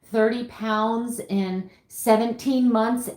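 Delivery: slow, pained confession; drawn-out, difficult admission; hard-to-say admission. Real, not acted. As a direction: force out each word reluctantly. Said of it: "how hard it is for me to say out loud".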